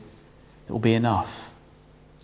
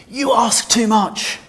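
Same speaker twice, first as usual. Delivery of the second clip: mock shouting; 3 semitones higher than usual. Israel shouting at God from the witness stand, mock shout. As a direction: shout it back at God in protest. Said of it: "hear Israel shouting at God from the witness stand".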